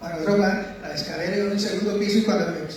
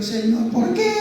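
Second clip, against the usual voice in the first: mock wail, pitched higher; imitated tearful plea; 5 semitones higher, slower than usual. Kneeling man asks the Lord why, in an imitated tearful plea. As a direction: re-enact crying out to God, stretching the end upward. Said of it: "Y yo ahí llorando".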